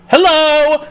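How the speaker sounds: high squeaky hello with a laugh; a shrill cartoonish greeting before the end; mock cheery hello. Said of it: "and I would go".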